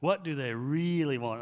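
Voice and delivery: REALLY leaned on and lengthened; imitated mentor's emphatic REALLY; stress on REALLY. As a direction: punch and stretch the word REALLY. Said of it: "He'd always emphasize really".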